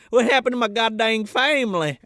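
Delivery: put-on shocked, puzzled little girl; bewildered girl. Friend voices the girl finding her family are pod people. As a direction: wake up baffled. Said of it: "she was like".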